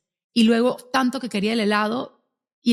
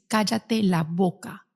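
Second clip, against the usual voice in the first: slow, deliberate defiant retort; a daughter slowly snapping back at her mother; much slower than usual. Retold or imitated. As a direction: drag each word out at mom. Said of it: "me dice".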